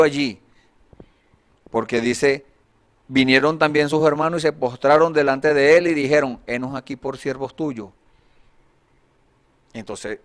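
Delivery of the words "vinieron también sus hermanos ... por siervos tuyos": loud, declaimed Bible verse, easing off at the end; projected reading of scripture. Acted. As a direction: read the verse out to the congregation. Rereads the verse aloud.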